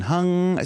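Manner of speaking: hung sung high, held on the NG; slow exaggerated speech modeling. Shown as a demonstration. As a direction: stretch the ng of hung. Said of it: "like the N G sound".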